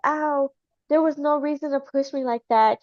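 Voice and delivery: imitated whiny accusation; mock hurt complaint. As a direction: play up being hurt, lightly. Voicing the friend feigning injury.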